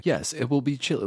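mock the friendly helpful Siri. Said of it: "she would say".

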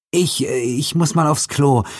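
high flustered woman's voice; flustered young woman, high and hurried; Alice calling out. A narrator's reading. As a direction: blurt it out to escape him. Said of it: "rief sie und sprang auf".

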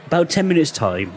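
put-on "about ten minutes' time" in a Somerset accent. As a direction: lean into a Somerset burr. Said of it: "keep on going into the fucking Somerset accent".

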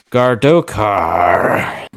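booming dragon voice. Acted. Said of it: "the voice calls".

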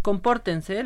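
hushed whispered order. Real, not acted. Telling the others to behave, whispering.

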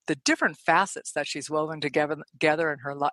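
rushed and tripping over the words; excited rush that stumbles into a repeat; speaking too fast. Real, not acted. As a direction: race ahead and trip on the phrase. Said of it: "I'm speaking too fast".

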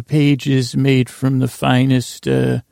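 slow run up to "finest", sentence left hanging; trailing pause. Real, not acted. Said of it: "did you catch that pause".

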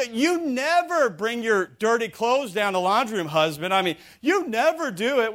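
mock wifely complaint; exaggerated accusation. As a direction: scold the husband with a sweeping claim. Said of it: "Extreme statements".

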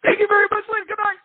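a high-pitched, cracking "thank you very much" in a famous singer's style; a wrecked voice squeaking out a classic singer's sign-off. Retold or imitated. Singer fleeing the stage, voice cracking high. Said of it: "basically went".

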